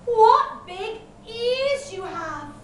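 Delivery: high, slow wonder; drawn-out astonishment, pitched high; gasped amazement. A narrator's reading. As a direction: marvel slowly in a high girl's voice. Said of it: "she gasped".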